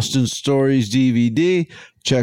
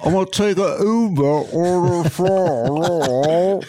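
higher put-on Aussie voice; Australian accent; 4 semitones higher than usual. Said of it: "The best Australian accent I've ever heard".

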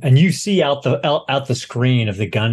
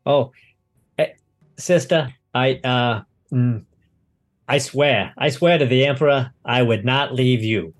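halting, acted nervous pleading; stammer, then swear loyalty with a touch of fear; terrified pilot. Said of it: "he's absolutely terrified".

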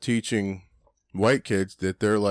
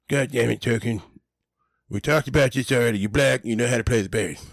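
raised mock Cartman voice, bossy; Cartman impression; 2 semitones higher than usual. Retelling South Park to a friend, bossy Cartman voice. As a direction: bark at Token like Cartman. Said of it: "He's like".

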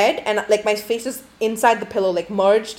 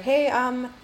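timid polite; 3 semitones higher, 4 dB quieter than usual. Retold or imitated. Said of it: "I didn't say it that way".

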